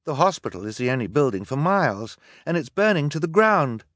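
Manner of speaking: high, loud distressed protest; alarmed. A narrator's reading. Sister to brother as the hospital burns, alarmed. Girl alarmed amid the fire.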